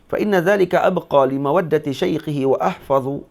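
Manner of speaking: formal teacher reading out a classical text; Arabic text recitation. Acted. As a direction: read the kitab aloud phrase by phrase. Reads the Arabic text aloud.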